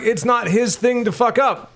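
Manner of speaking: high, slow, indignant mock complaint; retold indignation. Complaining about the repairman undoing his zip ties, slow high mock indignation. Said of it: "I'm like".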